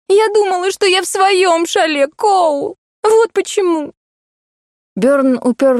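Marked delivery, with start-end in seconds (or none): 0.1-3.9 high, upset and tearful; tearful explanation. Acted. Heroine explains to Cole why she cries, high tearful voice. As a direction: blurt it through tears, pitched up.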